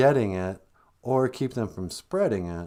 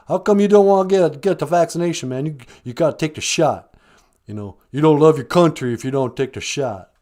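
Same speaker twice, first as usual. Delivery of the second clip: brash caller voice; 2 semitones higher, 5 dB louder than usual. Acted. Caller bullies host.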